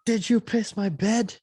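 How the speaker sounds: slow high mock accusation; mock friend. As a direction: squeak it like a shocked kid. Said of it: "He's like".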